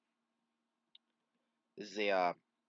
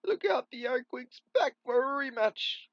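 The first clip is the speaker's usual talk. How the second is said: loud warning; 12 semitones higher, 6 dB louder than usual. Acted. Alarmed warning call.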